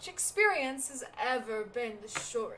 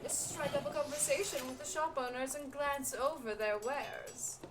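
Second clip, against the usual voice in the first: a lightly voiced stern master handing out work; lightly imperious quest giver; 6 dB louder than usual. Voices quest-giving master NPC.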